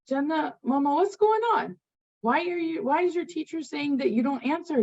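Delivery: lightly acted mom pressing her child for answers; questioning mother. Mother asking her little daughter about the teacher's note, puzzled questioning.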